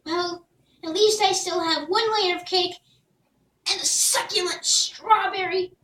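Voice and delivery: proud little hero showing his gift; Jack's voice. Acted.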